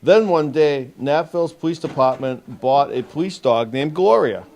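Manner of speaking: measured picture-book read-aloud with lifted key words; storybook narration for a young audience; reading to children. Acted. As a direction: read it out clearly to a group of young kids. Officer reads picture book to children.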